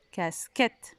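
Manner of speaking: "casquette" syllable by syllable, rising; split into syllables. Shown as a demonstration. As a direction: separate the last syllable of "casquette". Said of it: "la syllabe qui est la même".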